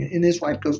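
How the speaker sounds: ordinary delivery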